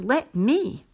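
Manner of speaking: put-on a mild child's plea, voice lifted; pleading. A narrator's reading. Boy asking to ride the tire, mild pleading. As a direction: ask gently, hoping for a yes. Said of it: "I pleaded".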